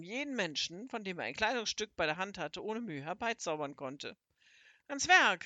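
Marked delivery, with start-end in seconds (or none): 4.9-5.5 grim, loud and high wizard's cry; fierce storybook rallying cry; grim call to action. A narrator's reading. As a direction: call out grimly, raising pitch and volume. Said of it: "rief der große Zauberer grimmig".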